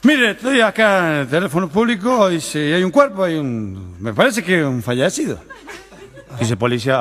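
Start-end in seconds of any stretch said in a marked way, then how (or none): 0.0-5.4 put-on halting, over-careful drunken speech; acted drunk trying hard to speak well; drunk sounding proper. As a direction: stumble on the first word, then labour through politely. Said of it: "cuando te pone para hablar bien, viste, está chupa".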